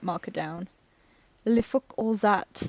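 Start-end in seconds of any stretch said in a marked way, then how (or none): 1.5-2.5 attempted French accent with some attitude; lightly put-on, amateur French accent.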